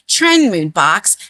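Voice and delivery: slow, careful "Trend Mood box". Shown as a demonstration. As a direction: say "Trend Mood box" slowly so every word lands. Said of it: "I have to say it slower".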